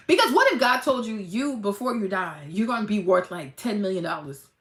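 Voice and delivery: normal talking voice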